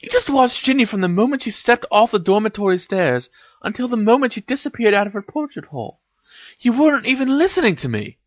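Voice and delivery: high-pitched excited revelation; exclaiming. A narrator's reading. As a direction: exclaim it high, building your case against him. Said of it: "exclaimed Hermione".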